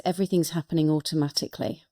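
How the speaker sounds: quick, even mantra recital; rattled-off affirmation; mantra recited. Shown as a demonstration. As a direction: say it like a chant you repeat. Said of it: "one of those mantras is".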